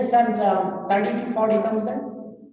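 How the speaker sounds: a touch of affected American English; mock American accent. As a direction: lightly imitate an American accent. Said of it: "This is in, in an accent, American accent".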